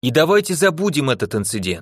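plain

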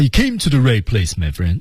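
happy, proud, cheerful and quick. Practicing an English sentence in a language lesson: proud, happy, cheerful. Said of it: "整个这句子呢，就是骄傲、高兴、开心啊。".

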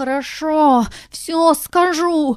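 high, pleading, begging shout. Reading a tale, the narrator voices a cat kneeling before a princess, with a pleading shout. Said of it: "умоляюще закричал кот".

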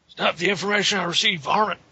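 high cartoon cowboy voice. Joking around in a group, switching impressions: Yosemite Sam voice. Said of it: "Should have done Yosemite Sam".

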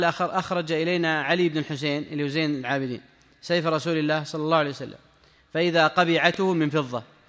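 ordinary talk

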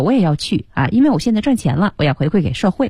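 usual speaking voice

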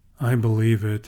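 low, eerily flat, toneless, unnerving monotone. Narrating Zack's reply to Justin's joke, in an unnerving monotone. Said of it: "Zack said in an unnerving monotone".

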